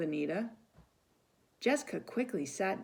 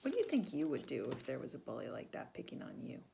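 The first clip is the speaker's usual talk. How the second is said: whisper; 2 semitones lower, 7 dB quieter, faster than usual. Real, not acted. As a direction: lean in and whisper it. Narrator whispers aside to listeners.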